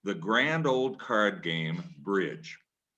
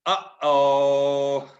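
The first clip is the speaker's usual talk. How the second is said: nervous uh-oh; 4 semitones higher, 5 dB louder than usual. Real, not acted. Reacting to the question.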